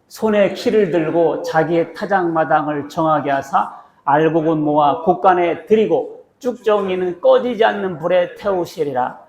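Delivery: slow, measured verse reading; deliberate, drawn-out recitation; scripture read-aloud. Acted. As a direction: lead the congregation through the verse, slowly.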